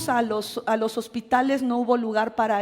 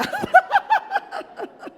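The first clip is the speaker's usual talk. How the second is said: a high, loud burst of laughter; 4 dB louder than usual. Real, not acted. Pastor laughs at her own joke to the church, high laugh. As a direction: let a real laugh break out.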